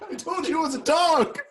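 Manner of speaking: high-pitched wail through laughter; laughing, high mock cry. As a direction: protest in hammed-up anguish, laughing. Players act out horrified realization, laughing.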